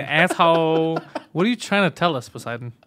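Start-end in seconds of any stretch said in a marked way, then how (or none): 0.0-1.0 drawn-out hint of an Asian accent; mock Asian accent. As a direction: lightly imitate an Asian accent. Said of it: "he said it with an Asian accent".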